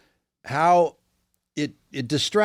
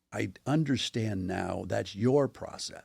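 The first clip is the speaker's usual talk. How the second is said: a slow, very soft attempt at his British accent; lightly put-on British accent, slowly; bad British accent; 2 semitones lower, 7 dB quieter, slower than usual. Alan conceding to a comic actor, mild British accent. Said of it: "I don't do his accent well".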